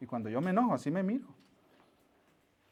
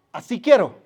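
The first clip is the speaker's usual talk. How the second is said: put-on little boy asking; 5 semitones higher, 11 dB louder than usual. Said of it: "Y le dijo a su mamá".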